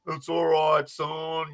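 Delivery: low, softening reassurance; consoling. Retold or imitated. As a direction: imitate a big teammate comforting a kid. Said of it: "like, consoling him".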